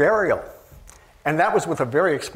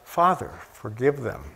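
tender forgiveness; 4 semitones lower, 4 dB quieter than usual. Retold or imitated. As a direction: let it fall quietly out of love. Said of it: "out of his love".

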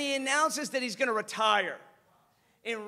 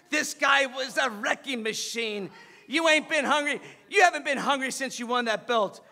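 raised voice, coach dressing down his boxer; heated scolding; 3 semitones higher, 6 dB louder than usual. Retold or imitated. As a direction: scold him loudly. Acted quarrel, coach scolding boxer.

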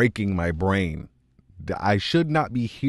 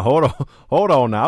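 louder, higher hold on; real shock, louder; stunned hold on; 4 semitones higher, 8 dB louder than usual. Real, not acted. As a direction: stop everything, blown away. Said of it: "I wasn't ready for that".

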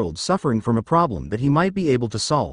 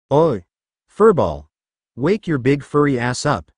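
screaming out. Acted. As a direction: yell to wake a sleeper. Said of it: "he screamed out".

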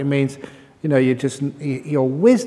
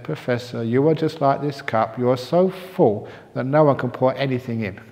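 calm wise monk. Acted. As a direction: settle the matter gently. Wise monk's calm reply.

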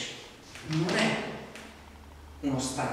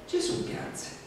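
hushed punchline; 5 dB quieter, slower than usual. Acted. Revealing the punchline verse softly.

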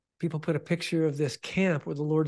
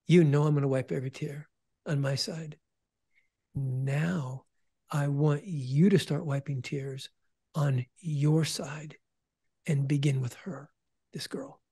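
lightly voiced coach giving an assignment, measured pauses. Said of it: "He said it like a coach, like a coach to a coach".

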